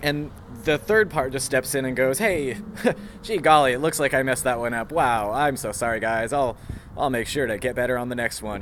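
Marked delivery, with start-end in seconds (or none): 2.2-8.6 fake cheery. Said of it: "it sounds kind of fake".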